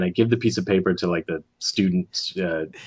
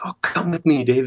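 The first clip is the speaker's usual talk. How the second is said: breathy whispered invite, pitched up; mock-secretive whisper fetching him; retold whisper; 7 semitones higher than usual. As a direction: hush it like a secret summons.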